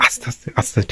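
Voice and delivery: hushed whisper, almost no voice. Real, not acted. Sneaking toward his sleeping sister, whispering. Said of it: "আস্তে আস্তে কথা বলছি".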